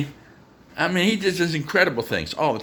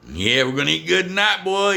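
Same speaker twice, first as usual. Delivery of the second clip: louder, rising hype for the dog; excited coaxing; 4 semitones higher, 4 dB louder than usual. Shown as a demonstration. Owner hyping up his dog about chicken, excited and louder. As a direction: pump the dog up about dinner. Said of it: "Get him a little bit excited".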